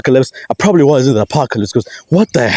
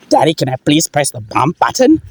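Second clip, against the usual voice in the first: put-on lightly higher childish plea; 4 semitones higher than usual. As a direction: ask daddy like a small kid. Child asks daddy.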